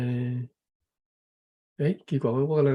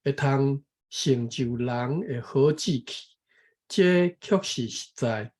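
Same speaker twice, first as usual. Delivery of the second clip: measured, careful reading of a text; reading aloud; slower than usual. Real, not acted. Taking a turn to read the passage, careful reading aloud. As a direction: read it out phrase by phrase.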